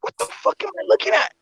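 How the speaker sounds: high-pitched baffled reaction; retold disbelief. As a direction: replay your bewilderment, voice jumping up. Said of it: "I was like".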